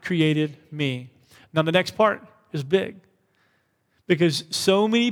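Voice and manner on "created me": slow call-and-response affirmation; slow unison declaration. Shown as a demonstration. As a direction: lead "God created me" slowly, leaning on "created". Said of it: "Say it again".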